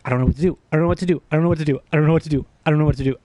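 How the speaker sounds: mild retold panic, barely varying; anxious repeating. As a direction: repeat it over and over like a stuck loop. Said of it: "I keep repeating".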